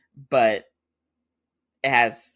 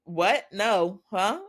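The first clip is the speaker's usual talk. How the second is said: higher-pitched, startled little questions; mock freak-out; 9 semitones higher, 4 dB louder, much slower than usual. Dokurak reacting to talk of kissing, mildly freaked out. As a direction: imitate someone caught off guard, pitch jumping up. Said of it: "And Dokurak freaks out".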